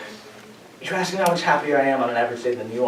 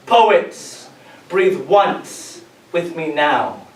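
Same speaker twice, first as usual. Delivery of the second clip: slow, drawn-out call to breathe together; slow poem ending; much slower than usual. Acted. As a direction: guide the audience into one breath.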